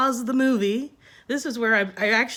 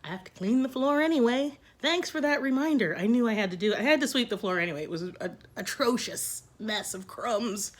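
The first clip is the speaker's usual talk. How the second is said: calm self-talk. Retold or imitated. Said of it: "just be calm about it".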